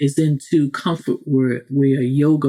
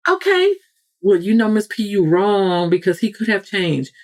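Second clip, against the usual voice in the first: mock sarcastic listener; 3 semitones higher than usual. Listener defending the ex.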